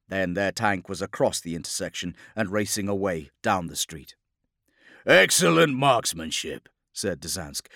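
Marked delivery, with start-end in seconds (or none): 5.0-6.7 loud, high, exultant praise; fierce grin. Acted. Captain praising gunners despite himself, fierce grin. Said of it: "grinning fiercely despite himself".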